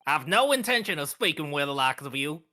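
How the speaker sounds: put-on guard's accent slipping into southern; accidental southern accent. Guard refusing to speak with suspicious visitors, southern accent. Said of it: "Why am I going southern".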